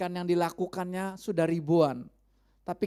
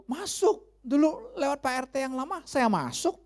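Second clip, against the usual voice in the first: neighbour answering; 8 semitones higher than usual. Retold or imitated. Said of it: "neighbour answers pastor".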